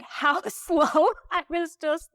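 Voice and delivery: amused laugh breaking into the line. Real, not acted. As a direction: giggle at your own slowness. Laughing while telling about slow climb.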